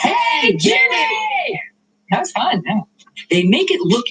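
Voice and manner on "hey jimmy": high, drawn-out cheer-like yell; high-pitched group holler; yell on cue. Shown as a demonstration. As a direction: shout it out on the count. Demonstrating the yell on count of three.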